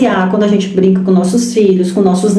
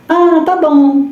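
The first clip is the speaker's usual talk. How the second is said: passive mother; 5 semitones higher, much slower than usual. Acted. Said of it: "a mosca morta".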